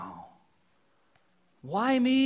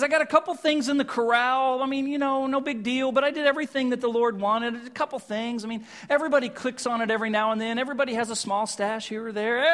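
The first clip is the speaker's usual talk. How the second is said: fast, high, offhand brushing-off; breezy excuses; 3 semitones higher, faster than usual. Acted. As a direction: rattle off the excuses like they're no big deal. Saul brushing off his sins.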